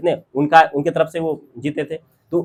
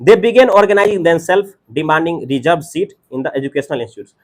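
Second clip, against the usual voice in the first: slow, measured read-out of lesson text; reading aloud; much slower than usual. Acted. Teacher reads English notes to the class, slow read-aloud. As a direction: read it out deliberately, word by word.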